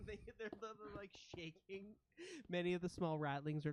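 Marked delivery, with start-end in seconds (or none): 0.1-1.8 hushed narration. A narrator's reading. Narrates the trembling ratlings.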